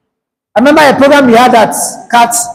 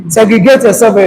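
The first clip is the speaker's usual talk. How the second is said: sharp raised call to the room; called-out order. Real, not acted. Teacher shouting to students to split into groups. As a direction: call it out so the whole class hears.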